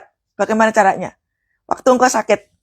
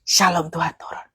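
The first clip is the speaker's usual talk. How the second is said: hushed, softer blessing; soft prophetic prayer; 5 semitones lower, 6 dB quieter than usual. Shown as a demonstration. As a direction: breathe peace over her quietly. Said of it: "Itu profetik loh". (doa profetik berbisik lembut)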